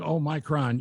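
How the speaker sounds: Omicron with a long "my"; mock wrong pronunciation. Host mimicking people who mispronounce Omicron. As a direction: imitate someone saying oh-MY-cron. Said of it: "if you got somebody going".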